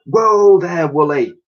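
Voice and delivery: loud high whoa to the beast; calming call. Acted. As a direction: rein in the mammoth. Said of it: "patted the animal and said".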